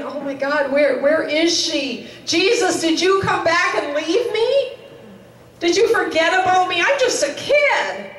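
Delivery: put-on a frightened little girl begging Jesus not to leave her; retold, mildly acted panic; panicked child. Child panicking, thinks she's left behind.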